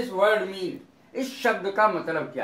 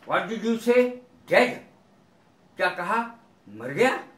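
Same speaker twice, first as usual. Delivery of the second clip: questioning disbelief, last word swinging sharply upward; mildly astonished. Shown as a demonstration. Reacting to news that someone is dead, mildly astonished. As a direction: ask it as if slightly taken aback. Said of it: "थोड़ा सा आश्चर्यजनक के लिए".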